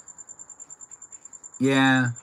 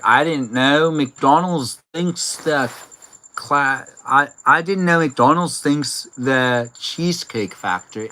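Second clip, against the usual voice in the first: imitating Iris; slower than usual. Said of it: "I'm trying to do her voice".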